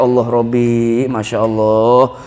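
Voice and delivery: low, slow sigh of exasperated piety; weary exclamation. Retold or imitated. Preacher voicing own weariness at endless bickering, low exasperated prayer. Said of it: "kata saya".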